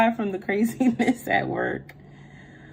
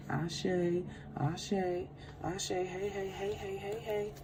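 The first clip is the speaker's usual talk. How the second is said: quiet, hushed invocation; hushed prayer ending in "Ashe"; 3 semitones lower, 5 dB quieter than usual. Real, not acted. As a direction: pray softly, fading to a near whisper. Prayer before the reading.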